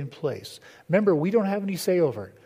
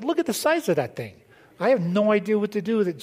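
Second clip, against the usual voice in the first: raised, rushed mock panic at a big horse; mock alarm; 5 semitones higher, 4 dB louder than usual. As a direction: act nervous and overwhelmed, a bit fast. Retold his panic at horse.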